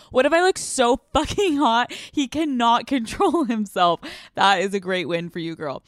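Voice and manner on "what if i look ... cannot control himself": higher, mock-confident quote; playful imitation of the letter writer; mocking the listener. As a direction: ham up the question. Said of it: "You're like".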